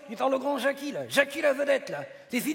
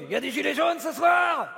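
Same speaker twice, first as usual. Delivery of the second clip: higher rallying call to the crowd; 4 semitones higher than usual. Acted. Rousing the audience's yellow vests, calling out. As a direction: throw the question out to the whole room.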